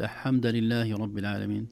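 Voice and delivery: deliberate glaring slip on "الحمد"; wrong vowel recitation. Shown as a demonstration. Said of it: "يعرف أن هذا خطأ".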